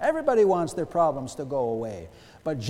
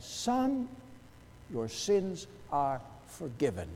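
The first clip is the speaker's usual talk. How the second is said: gently quoted, falling softly after "Son"; retold compassion; 2 semitones lower, 5 dB quieter, slower than usual. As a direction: let the forgiveness land softly and tenderly. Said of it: "Jesus spoke with the compassion of the Father".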